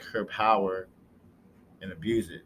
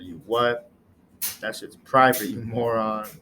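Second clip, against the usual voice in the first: loud, offended shout at the end; indignant outburst; 6 dB louder than usual. Acted. John furious his private files were read, loud. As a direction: blow up at the nerve of it.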